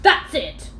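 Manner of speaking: sudden loud cry; cried out. A narrator's reading. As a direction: blurt it out as it dawns. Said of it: "cried the captain".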